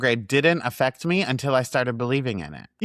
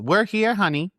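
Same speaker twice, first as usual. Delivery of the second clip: sweet creepy voice; 8 semitones higher than usual. Retold or imitated. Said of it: "Like that".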